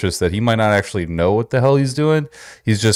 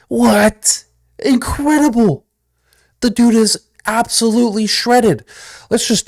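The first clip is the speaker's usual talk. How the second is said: mock amazement; 11 semitones higher, slower than usual. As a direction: gush over him in fake astonishment. Hammed-up awe at trainer's abs.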